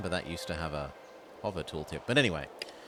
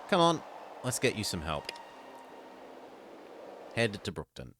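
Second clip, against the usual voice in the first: tender; 4 dB quieter than usual. Acted. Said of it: "tenderly to Sid".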